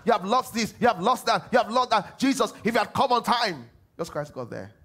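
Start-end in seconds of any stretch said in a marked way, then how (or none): 0.0-3.7 high, loud lamenting cry; loud half-sung mourning lament; wailing mourners. Retold or imitated. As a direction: wail it like grieving family. Mourners wail at Lazarus tomb.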